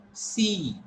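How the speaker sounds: "See" with a held ee vowel; long E. Shown as a demonstration. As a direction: draw out the ee in "See". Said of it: "So while pronouncing there".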